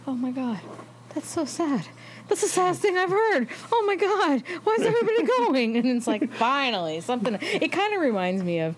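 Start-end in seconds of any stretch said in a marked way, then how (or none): 0.1-5.8 rising to a high, hammed-up wail; overdone whining, climbing higher; mock-sad wail. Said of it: "he's like".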